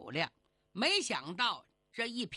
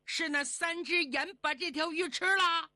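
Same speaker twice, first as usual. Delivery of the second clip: higher, louder, wide-eyed disbelief; shocked question; 7 semitones higher, 4 dB louder than usual. Acted. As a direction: ask it like you can't believe it. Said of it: "眼睛瞪得溜圆". (瞪眼惊问)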